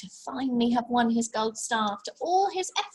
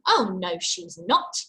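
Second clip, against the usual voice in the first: mild yell; 3 semitones lower, 3 dB louder than usual. Acted. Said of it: "yelled Ganabout".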